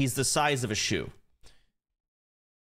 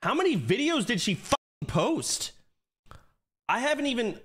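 excited disbelief; 12 semitones higher, 5 dB louder than usual. Real, not acted. Reacting to many videos.

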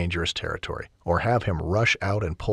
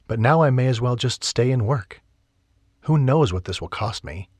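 lightly voiced heroine; 4 semitones higher, 4 dB louder than usual.

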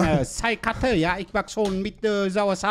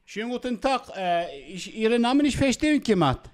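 put-on Vietnamese accent in German; 2 semitones higher than usual. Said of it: "Hotel muss man als Vietnamese anrufen".

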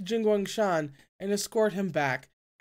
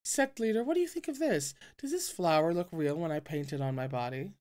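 put-on coquettish girl voice. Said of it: "Their voices chirped melodiously".

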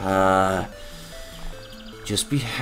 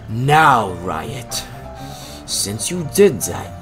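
put-on German accent with a menacing pause; theatrical German-accented villain; slower than usual. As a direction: draw it out in a mock German accent. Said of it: "German accent".

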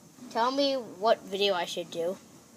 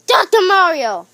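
calling out; 8 semitones higher, 14 dB louder than usual. Pretend. Calling for the doctor.

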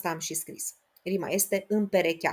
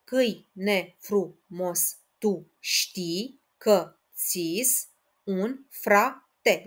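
even slower, one syllable at a time; syllable counting repeated; much slower than usual. Shown as a demonstration. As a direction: count it out again, very deliberately. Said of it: "Încă o dată".

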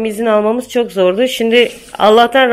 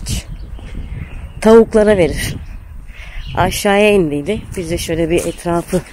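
lower-pitched, measured voice-over with pauses; vlog narration; 4 semitones lower than usual. Real, not acted. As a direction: narrate the morning calmly, in short phrases. (sakin vlog anlatımı)

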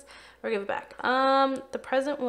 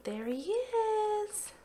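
relieved excitement; 11 semitones higher, 3 dB quieter, much slower than usual. Real, not acted. The sim finally appears.

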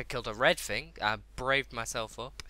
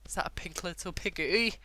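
higher, rising question; delighted surprise; 6 semitones higher than usual. Real, not acted. Gamer spotting a pink piggy, delighted surprise. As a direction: ask it in rising disbelief. First spots a cute pig.

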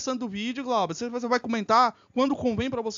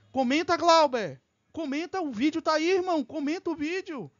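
insistent goading; 6 semitones higher than usual. Real, not acted. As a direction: push him to speak up, voice raised in pitch. Goading Glauber to comment on video.

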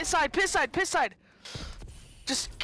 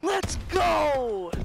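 excited victory shout; 2 semitones higher, 3 dB louder, much slower than usual. Real, not acted. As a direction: cheer the win at full voice. Celebrating a clutch win.

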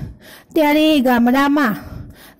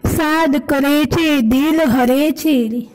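slow, sing-song reading of the poem line; poem recitation. Shown as a demonstration. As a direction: recite "સાદ કરે છે" slowly like a verse. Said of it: "એક એક પંક્તિનો આપણે સમજતા જઈશું". (ધીમે, કવિતા ગાતા હોય એમ)

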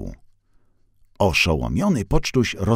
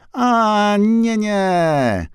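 much higher, startled; startled refusal; 13 semitones higher, 4 dB louder, much slower than usual. A narrator's reading. Van startled by the attendant, much higher, flustered. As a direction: jump back flustered. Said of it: "odskoczył".

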